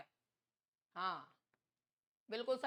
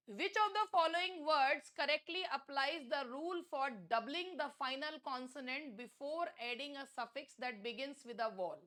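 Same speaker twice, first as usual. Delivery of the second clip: reads the exam question out very slowly; deliberate test-question read-aloud; much slower than usual. Acted. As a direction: spell out each word of the question for the class.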